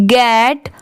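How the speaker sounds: very slow, phrase by phrase, for students to repeat; teacher reading aloud at a crawl, pausing after every few words; slow dictation. Shown as a demonstration. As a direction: read it slowly so the class can echo each chunk. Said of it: "आप भी मेरे बाद repeat करिए".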